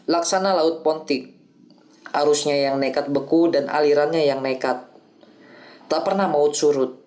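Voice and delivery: Othello lines broken into measured phrases with clear pauses; recited with logical pauses. Shown as a demonstration. Student reciting Othello for his teacher, pausing between phrases. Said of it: "Jadi beginilah aku membagi jeda".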